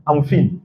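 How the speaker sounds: "fine" said as "feen" in "I'm fine"; mispronounced "fine". Shown as a demonstration. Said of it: "la prononciation est très".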